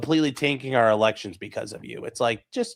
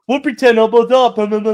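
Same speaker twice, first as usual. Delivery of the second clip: high, loud, sing-song mockery of the crowd; mocking Canadians; 10 semitones higher, 8 dB louder than usual. Mocking Canadians' empty promises in a high loud sing-song. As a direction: sneer it out like a dismissive chorus. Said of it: "they're like".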